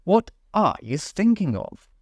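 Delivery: severe. A narrator's reading.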